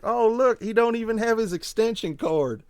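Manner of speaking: mock the fan folksy style; gentleman bumpkin voice. A friend taunting the fan in the bumpkin voice. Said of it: "start talking like this".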